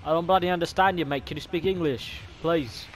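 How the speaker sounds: lightly put-on Aussie accent, bloody and mate; hint of Australian accent; mock Australian accent. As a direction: play an Aussie bloke in a game lobby. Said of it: "I'm bloody Australian".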